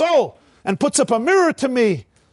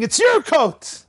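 slow, high mock yell of the father; the father's hammed-up slow cry; retold yell; 7 semitones higher, slower than usual. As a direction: drag it out as if pleading to give. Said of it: "The father was screaming".

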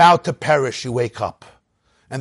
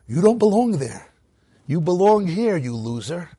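inner taunting voice; 3 semitones higher than usual. Acted. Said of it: "There was an inner voice of Mitzrayim".

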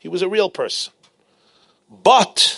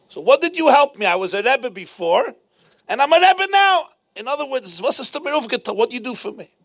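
mildly heated challenge, pitched high; indignant retort; 8 semitones higher than usual. Retold or imitated. Student challenging his teacher over what he was given, indignant. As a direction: throw the question back, voice raised in pitch.

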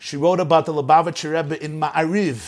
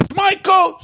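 high mock yell; father's screamed claim, acted out; retold scream; 13 semitones higher, 4 dB louder than usual. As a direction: fire it back high and insistent. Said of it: "Father was screaming".

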